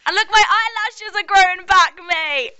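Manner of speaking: high, loud, thrilled exclamation; excited. Real, not acted. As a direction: show it off, delighted. Thrilled showing regrown eyelashes.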